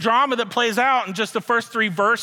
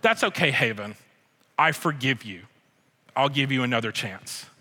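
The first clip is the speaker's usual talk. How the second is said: gentle forgiveness; 5 semitones lower than usual. Pretend. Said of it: "I could choose to respond".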